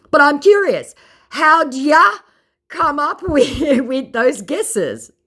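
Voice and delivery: indignant mock scammer. Mocking the scammer's complaint, high whiny mock voice. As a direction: sound put-out and whiny.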